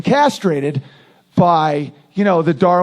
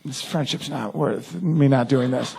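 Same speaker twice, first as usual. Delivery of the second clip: low aside; 7 semitones lower, 7 dB quieter, slower than usual. Retold or imitated. Aside to his friend before retorting.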